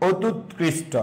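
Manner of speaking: অতুৎকৃষ্ট slowly, split after অতুৎ; slow word dictation. Shown as a demonstration. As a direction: break অতুৎকৃষ্ট into two slow chunks with a gap. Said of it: "এরকম বলি একটা শব্দ".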